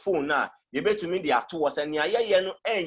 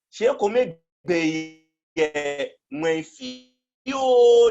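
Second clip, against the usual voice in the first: raised voice; 5 semitones higher, 5 dB louder, much slower than usual. Shown as a demonstration. Demonstrating a loud tone.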